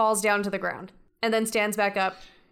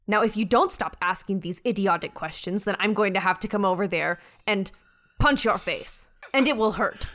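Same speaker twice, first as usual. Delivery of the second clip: aggressive. Acted. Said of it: "You're much more aggressive".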